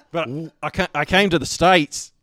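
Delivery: a touch of put-on Australian accent; lightly played Australian newcomer; Geordie Thorpe. Friend retelling his made-up backstory, in a light Australian accent. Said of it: "I would do the Australian accent".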